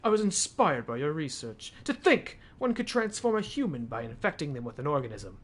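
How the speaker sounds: lightly snobby letter reading. Shown as a demonstration. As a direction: read it a bit snooty. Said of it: "reading it in a snobby voice".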